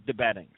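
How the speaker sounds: DeBettings said carefully as the real pronunciation; corrected pronunciation. Shown as a demonstration. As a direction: pronounce DeBettings clearly as a name correction. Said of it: "Real pronunciation is".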